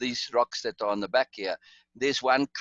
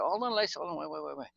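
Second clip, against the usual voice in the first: urgent calling out; 4 semitones higher, 5 dB quieter than usual. Retold or imitated. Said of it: "I said".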